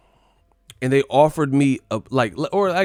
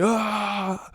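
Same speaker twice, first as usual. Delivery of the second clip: mock scream; 9 semitones higher than usual.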